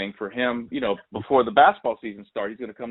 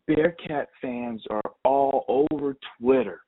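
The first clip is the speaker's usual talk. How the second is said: amused mom; 3 semitones higher, slower than usual. Retold or imitated. Mom voiced, amused about fans.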